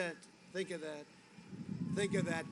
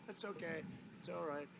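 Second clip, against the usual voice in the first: unbothered, cool; 4 semitones lower, 12 dB quieter than usual. Retold or imitated. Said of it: "very extreme confidence".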